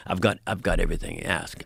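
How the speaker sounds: low, lightly voiced rock star; a rock singer. Rock star boasts about his merchandise, low imitated voice. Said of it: "my impression".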